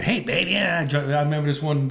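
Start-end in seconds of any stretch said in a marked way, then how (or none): 0.0-0.8 diner waitress. Retold or imitated. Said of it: "That's like the old Kenyan diner where".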